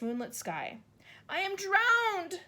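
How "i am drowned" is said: high, slow gasp; the grasshopper gasps after the deluge. A narrator's reading. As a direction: gasp it out, half drowned. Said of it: "gasped the old green grasshopper".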